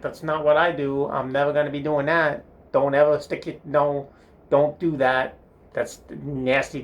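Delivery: lightly acted scolding; mild mock disgust. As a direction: protest like a grossed-out kid. Boy refuses French kissing, disgusted.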